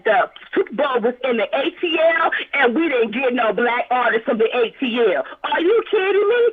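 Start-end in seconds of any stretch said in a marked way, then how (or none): 5.4-6.5 incredulous shout. Real, not acted. Indignant at Super Bowl lineup.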